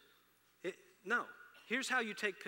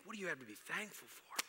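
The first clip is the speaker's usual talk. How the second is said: a softer, intimate ask of What; softer question; 6 dB quieter than usual. Shown as a demonstration. Pastor asks the congregation softly what they're thankful for. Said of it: "repeated question".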